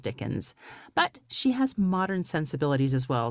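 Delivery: polished podcast host intro; warm, inviting show-opening read; beautiful voice. Acted. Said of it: "I could listen to your voice all day long".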